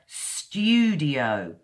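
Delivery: "studio" drawn out, long falling oo after st; modern British "studio". Shown as a demonstration. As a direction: stretch the first vowel of "studio". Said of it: "I speak modern British English".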